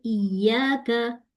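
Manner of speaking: इय्याका drawn out slowly, shadda on the ya held; slow Quranic recitation. Shown as a demonstration. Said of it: "सूरह फातिहा में पढ़ते हैं".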